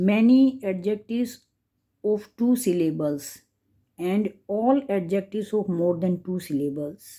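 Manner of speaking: slow textbook reading voice; slow rule reading. Shown as a demonstration. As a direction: spell out the rule slowly for the class. Teacher reads second rule.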